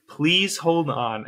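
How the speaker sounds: slow, evenly spaced recorded voice; slow robotic announcement. Retold or imitated. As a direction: drag it out like a looping recording. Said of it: "and it'll repeat, like, seven times".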